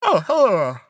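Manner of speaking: greeting through a yawn. Real, not acted. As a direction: say it mid-yawn, stretched open. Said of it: "Sorry, yawn-, I'm yawning".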